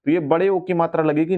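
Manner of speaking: ordinary talk, nothing marked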